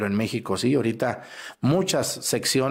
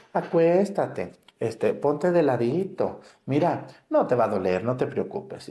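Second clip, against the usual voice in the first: gentle nurse. Retold or imitated. Priest imitating a nurse calming a patient, lightly coaxing. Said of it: "te habla bonito".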